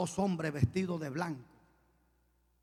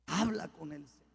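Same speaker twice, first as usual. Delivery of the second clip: ordinary talk, nothing marked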